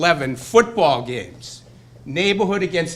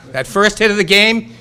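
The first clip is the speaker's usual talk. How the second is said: pumped-up, punching out the words; rally the crowd with it; louder rallying call; 5 semitones higher, 7 dB louder than usual. Shown as a demonstration. Repeats line to rouse crowd.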